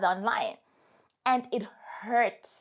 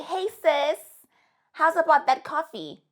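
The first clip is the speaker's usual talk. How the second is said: higher and louder, casually cheeky; mock breezy invite; 6 semitones higher, 4 dB louder than usual. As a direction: imitate the ghoster's shameless comeback. Mocking the ghoster returning.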